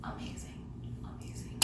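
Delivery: soft, slow whispered wow; hushed delight. Real, not acted. Tasting a milkshake at night, hushed wonder. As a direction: breathe out the amazement.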